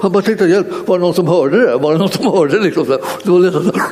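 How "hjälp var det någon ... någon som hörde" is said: higher-pitched, amused mock astonishment; astonished. Startled young man checking whether anyone heard him, mock astonished. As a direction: retell his startled question with a laugh in it. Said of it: "han var lika häpen själv".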